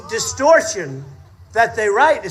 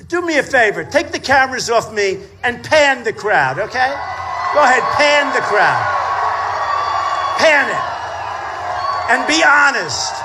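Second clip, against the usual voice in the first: shouting at cameras. Real, not acted. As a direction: order the cameras round.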